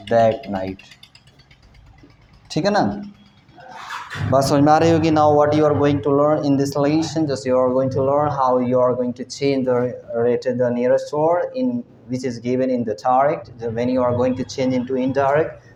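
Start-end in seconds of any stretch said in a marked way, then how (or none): 5.1-15.7 slow teacher English. Acted. Slow formal English explanation.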